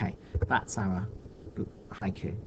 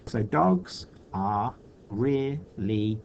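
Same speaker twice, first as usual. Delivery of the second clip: slow tryout; slower than usual. Shown as a demonstration. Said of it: "So let's have dogs".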